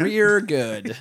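"Rear good" with r for l; lightly accented "Rear"; mock Asian accent. Insisting on the accented "Rear good", a mild mock Asian accent. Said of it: "terrible Asian accent".

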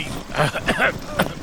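coughing mid-sentence; breaking off to cough. Acted. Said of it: "I've got a bit of a cough".

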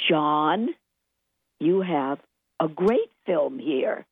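voice starting to rise. Retold or imitated. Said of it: "The voice kept going up".

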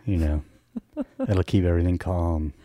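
low, calm radio host voice; late night voice. Pretend. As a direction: ease into a mellow late-show tone. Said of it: "I'm just gonna do the late night voice".

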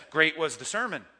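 "great" stressed up front, then falling. Shown as a demonstration. Teacher showing emphatic word order, "great" stressed. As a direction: lean on the first word "great". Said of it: "the emphasis goes up front".

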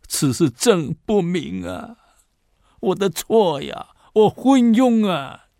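a ruler wailing his own failings; remorseful emperor. Acted. Emperor confesses his fault.

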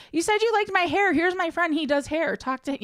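high, sugary fake friendliness; mock sweet. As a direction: feign sweetness while scheming. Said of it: "I'm like".

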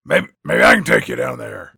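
very low, loud put-on villain voice; hammed-up deep, sinister offer; creepy orderly. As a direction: play a creepy man offering an escort. Acting the menacing orderly's sly offer.

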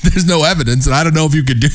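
laughs while repeating the guy's words; laughing mockery. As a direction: parrot him through a laugh.

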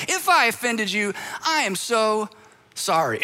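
a light pat-on-the-head tone; patronizing apology. Retold or imitated. Apologizer soothing the offended person like a child, mild condescension. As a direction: talk down sweetly, just a little. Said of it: "a little side hug".

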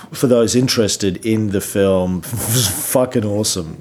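losing his voice, hoarse; rough, worn-out voice after a long week. Real, not acted. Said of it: "I'm losing my voice".

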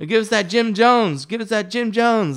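high, insistent mock chant; retold clamoring demand. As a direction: imitate rowdy inmates demanding their share. Acted inmates clamoring for drink.

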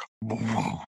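soft imitated blast boom; quiet explosion noise. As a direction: mouth a muted explosion boom. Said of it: "I was trying not to make that sound super loud".

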